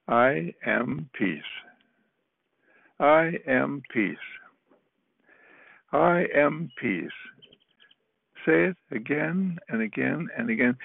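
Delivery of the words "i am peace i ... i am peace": slow, gentle affirmation; gently, lovingly. Shown as a demonstration. A counselor shows a student how to say it, slow and gentle. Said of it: "say it lovingly. Say it gently".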